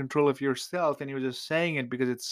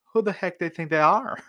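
higher, scornful mock sneer; contemptuous retort; 5 semitones higher than usual. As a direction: scoff at the messenger with contempt. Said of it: "Nabal replies in contempt".

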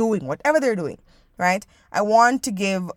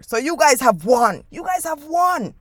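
mock defeated shout; 4 semitones higher, 4 dB louder than usual. Mock surrender to elders.

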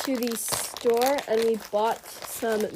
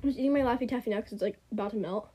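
chewing while talking; 4 dB quieter, faster than usual. Real, not acted. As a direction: mouth full of taffy. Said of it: "Sorry for the eating noises".

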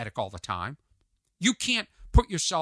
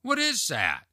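higher, mock-baffled retort; incredulous question; 5 semitones higher, slower than usual. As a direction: ask it in puzzled disbelief. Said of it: "That's how I said it".

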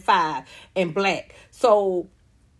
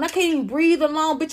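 normal talking voice

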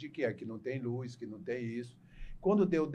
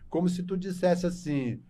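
ordinary delivery

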